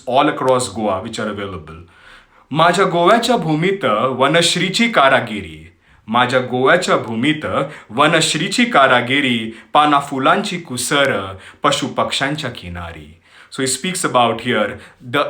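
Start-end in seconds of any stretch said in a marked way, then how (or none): 2.5-13.1 poem recitation. Acted. Host recites Marathi poem on Goa to listeners, poetic recitation. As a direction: recite in measured phrases, pausing between lines.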